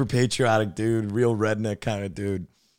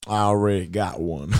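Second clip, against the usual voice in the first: slow redneck drawl; slower than usual. Retold or imitated. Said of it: "When he'd say".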